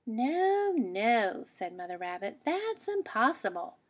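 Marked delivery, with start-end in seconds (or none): 0.1-1.4 high then dropping, louder refusal; firm motherly no, no; mother rabbit shutting down the idea; mother says no. Acted. 2.4-3.8 mother rabbit saying it cannot happen; firm mother. Acted.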